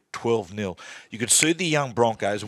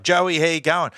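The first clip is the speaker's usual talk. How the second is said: calling out; 7 semitones higher, 4 dB louder than usual. Retold or imitated. Fans calling out at stadium.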